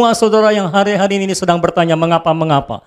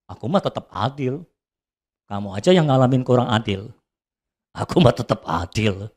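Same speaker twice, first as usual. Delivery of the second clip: lower, much softer calm voice of God; God's answer; 7 semitones lower, 5 dB quieter than usual. Acted. God answering the preacher's complaint, low and soft. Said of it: "Tuhan menjawab".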